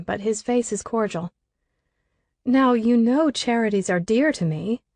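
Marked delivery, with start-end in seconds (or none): 2.4-4.8 teasing mockery. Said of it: "I tease in mockery with a giggle".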